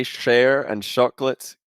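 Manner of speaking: "chocolate" begun with sh, Swedish-style; Swedish pronunciation. Shown as a demonstration. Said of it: "Swedish, Swedish just say share".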